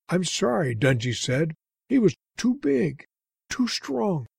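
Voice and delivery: apologetic wounded guardian, pitched high. Acted.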